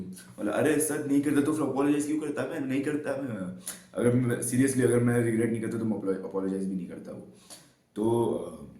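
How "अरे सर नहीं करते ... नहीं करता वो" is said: mock childish protest to the teacher. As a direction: play your younger self as a whiny kid. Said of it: "इतनी बचकान आवाज़ में नहीं बोला था मैंने".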